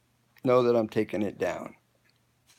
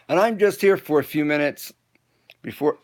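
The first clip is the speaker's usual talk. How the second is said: talking through hiccups; hiccuping between words; faster than usual. Real, not acted. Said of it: "I got the hiccups".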